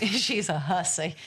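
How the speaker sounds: laughing it back. Real, not acted. Owner laughing as she repeats her own joke. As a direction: let a laugh run through the repeat.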